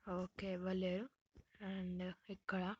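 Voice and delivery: slow hushed whisper; whispering while hiding. Real, not acted. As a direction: whisper so the seeker can't hear. Hiding from seeker.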